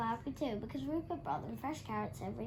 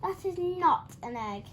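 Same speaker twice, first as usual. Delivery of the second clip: disgusted; 7 semitones higher, 6 dB louder than usual. A narrator's reading. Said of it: "cried Dora".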